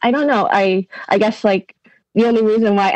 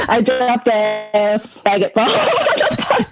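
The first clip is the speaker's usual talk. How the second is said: slow deliberate drop; much slower than usual. Pretend. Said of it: "drop it in there in the most clanging way possible".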